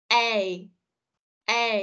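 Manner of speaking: A as e gliding into i; diphthong demo. Shown as a demonstration. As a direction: say A, sliding from e to i. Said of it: "phát âm từ âm e sang âm i".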